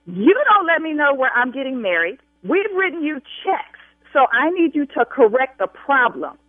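real angry, insistent demand. Real, not acted. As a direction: raise your voice, pressing each demand. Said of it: "I will continue to raise my voice".

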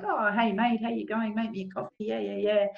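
a light mock impression of a dismissive boss; imitating the acting boss. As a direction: toss it off like a careless boss ordering coffee. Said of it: "he was just kind of like".

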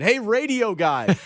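stretched attention-getting call, not shouted; mock calling out. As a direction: call to a worker from a distance. Acting a stranger calling out.

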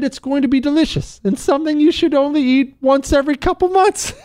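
high-pitched, breaking into laughter; laughing. Real, not acted. Host joking to listeners about fast food, laughing. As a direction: let a laugh push the voice way up. Host cracking up at own joke.

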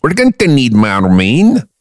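slow, thick mock Scots; exaggerated Scottish rallying line; Scottish accent. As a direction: draw it out in broad Scottish. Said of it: "let me hear your Scottish accent".

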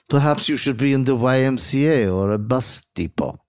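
lightly hammed French accent. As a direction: play a deliberate, put-on French accent. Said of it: "are you ready for a French accent".

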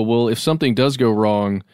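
ordinary talk

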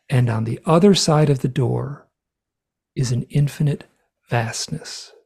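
measured recitation with long pauses; like poetry. Retold or imitated. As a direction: deliver each statement as a solemn verse. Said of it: "I just spoke this like poetry".

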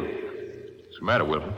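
low hushed voice, barely voiced; a tense near-whisper in the dark; hushed worry. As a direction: ask under your breath, uneasy. Tense moment in dark mine.

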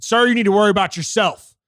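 loud, firm comeback, staring him down; defiant retort. Retold or imitated. Telling off the older man who demanded he mask up, loud and defiant. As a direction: shoot it back hard and flat. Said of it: "I looked at him dead in the fucking eyes".

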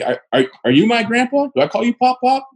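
high-pitched mock-innocent questioning; sarcastic comeback. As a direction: play the little grandchild, mockingly. Sarcastic comeback to head-rubbing.

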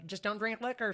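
a light Southern accent, lightly imitated; hint of a Southern old-timer saying it. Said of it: "she says in her little Southern accent".

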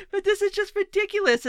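high laughing disbelief; exasperated laugh at the absurdity; laughing exasperation. Real, not acted. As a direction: laugh it out in frustration.

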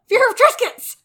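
high, loud comic exclamation; joking outburst. Real, not acted. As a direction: blurt out the silly pun at full volume. Joking outburst at sound-alike word.

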